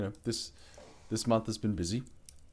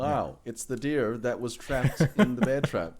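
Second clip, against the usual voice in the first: higher, laughing through the words; amused retelling; 4 semitones higher, 3 dB louder than usual. Real, not acted. Player recounts Grandpa's trapped deer to the group, laughing.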